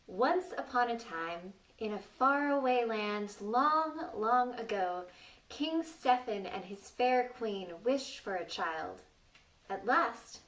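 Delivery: put-on lilting read-aloud voice for children; storybook narration. A narrator's reading. Teacher reading a fairy tale to children, lilting. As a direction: tell it like a bedtime fairy tale.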